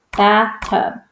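"Bathtub" in two distinct beats; small break between bath and tub in "Bathtub"; chunked syllables. Shown as a demonstration. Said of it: "one chunk is bath".

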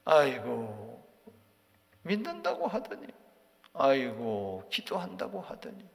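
sighing scorn, pitch leaping up at the end; tut-tut at a weak believer; scoffing. Acted. Eliphaz scoffing at Job's faith, mock sighs.

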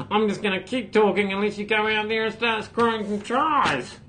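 a light mock of an annoying coach, talking with his mouth barely open; mock coach pep talk spoken through a barely open mouth; annoying Michael Cheika voice. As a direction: lightly impersonate the Aussie coach's grating halftime talk. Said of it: "he's got the most annoying voice I've ever heard".

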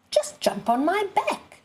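high, coaxing fox voice; sly fox. A narrator's reading. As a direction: lure him in sweetly. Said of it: "said the fox".

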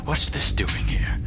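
hushed, half-whispered pretend thought; half-whispered musing. Gamer voicing a thought on finding a tape recorder, half-whispered. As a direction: muse under your breath.

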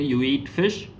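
"You eat fish" with an upward end on "fish"; questioning intonation. Shown as a demonstration. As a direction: ask "You eat fish" through the rise alone. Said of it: "It is actually in intonation form".

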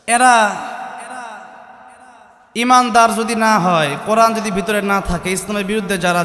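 preacher denouncing the faithless at full force; thundering sermon. Real, not acted. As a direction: bring the words down like a verdict.

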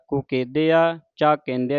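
"ਕੁਕੇਦਿਆ" plain, "ਕੇਂਦਿਆ" with nasal en; contrasted nasal vowels. Shown as a demonstration. Teacher contrasts bindi and none, nasal only in "ਕੇਂਦਿਆ". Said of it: "ਇੱਥੇ ਬਿੰਦੀ ਤੋਂ ਰਹਿਤ".

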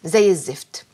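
low, breathless whispered misery; miserable whisper. Acted. Daughter telling her father how miserable she is, whispered. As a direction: whisper out your despair.

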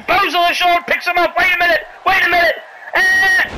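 high, urgent play-by-play; excited build-up. Real, not acted. Commentator watching a lift before the slam, high excited call. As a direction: raise the pitch as the move looms.

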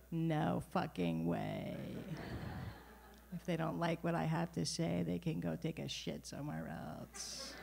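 put-on mom's New York accent. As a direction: drop it like a tough New Yorker who doesn't care. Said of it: "which I like to mimic".

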